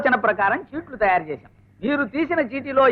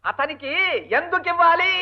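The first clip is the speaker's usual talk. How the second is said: pointed question; 3 semitones higher than usual. Acted. Husband asks wife why give him money, pointed and laboured. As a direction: spell out the question deliberately.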